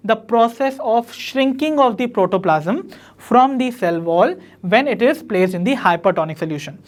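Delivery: slow, deliberate note-taking pace; teacher reading a definition aloud for notes; slow dictation. Shown as a demonstration. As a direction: dictate each word so students can write it down.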